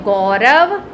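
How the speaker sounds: slow model read of the sentence; slow, careful classroom read-aloud; slow demo reading. Shown as a demonstration. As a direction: read it slowly for the class to follow. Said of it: "मैं पढ़ के बताती हूँ".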